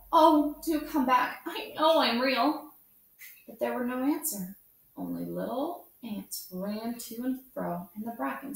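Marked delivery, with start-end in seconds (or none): 0.1-2.7 high, loud plea; a lonely rabbit calls his new friends back; calling after them. A narrator's reading. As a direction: call out after the leaving rabbits. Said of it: "called the little rabbit".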